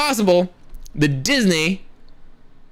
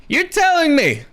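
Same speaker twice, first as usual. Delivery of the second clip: higher, disbelieving repeat; incredulous; 9 semitones higher than usual. Real, not acted. Pushing back on a casting rumour, pitched up in disbelief. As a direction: say it again way up in disbelief.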